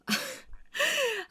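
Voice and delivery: high bursting laugh that trails off; burst of laughter. Acted. Husband bursting out laughing at his wife's question. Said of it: "왁 하고 막 웃는 거예요".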